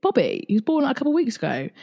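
imitating insistent mum. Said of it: "And she was like".

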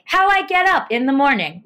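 flat robotic text-to-speech; automated TikTok voice. Retold or imitated. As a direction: imitate the TikTok robot narrator. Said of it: "Like that?".

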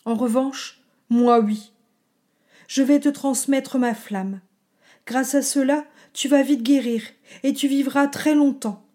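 gentle old dragon, lightly voiced; calm farewell of a kindly dragon. Dying dragon comforts child.

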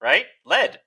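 high, sarcastic sales pitch; mock the all-natural label. Mocking natural-food marketing.

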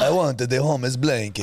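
slow imitation Italian accent; mock generic accent. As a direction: mimic a bad Italian accent slowly. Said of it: "generic accent you use for anyone".

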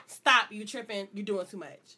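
slow, low, quietly firm imitation; no-nonsense. Woman mimicking Brittany telling her off, no-nonsense. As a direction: shut it down calmly and slowly. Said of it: "no nonsense".

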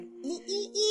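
high little "ee" sounds; creeping noise. Pretend. Player miming the group sneaking into a room, creeping squeaks. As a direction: squeak out tiny creeping steps.

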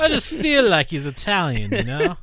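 put-on hammy Italian accent, laughing; bad Italian accent, half-laughing. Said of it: "That's a horrible Italian accent".

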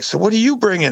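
high mock coworker asking about the potluck. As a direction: put on a high prying coworker voice. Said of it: "They were like".

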